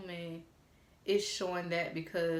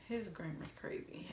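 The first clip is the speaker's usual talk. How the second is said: whispered aside; 7 dB quieter than usual. Real, not acted. Aside about his texts.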